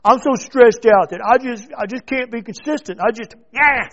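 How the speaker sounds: mocking whiny excuse. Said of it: "sick and tired of myself saying it".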